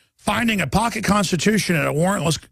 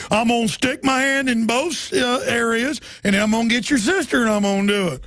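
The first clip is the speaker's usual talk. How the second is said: a hint of a bullying cop, slightly higher; mild cop impression; 5 semitones higher than usual. Host mocking a cop's threats, lightly voiced. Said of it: "That's what they do".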